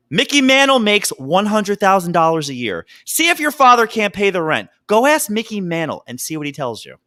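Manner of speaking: gangster movie quote. Retold or imitated. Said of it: "quote number one".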